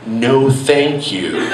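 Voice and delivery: slow, puzzled reply; confused. Retold or imitated. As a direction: say it baffled and hesitant. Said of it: "in a confused manner".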